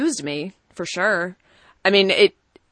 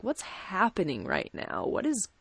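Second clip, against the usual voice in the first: bewildered muttering; 6 dB quieter, slower than usual. Retold or imitated. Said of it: "be like".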